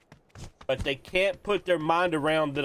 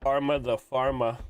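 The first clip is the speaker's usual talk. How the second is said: slow, drawn-out "Pharma the pharma"; slow name readout. Real, not acted. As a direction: stretch out "Pharma the pharma" at normal volume. Repeats a funny name slowly.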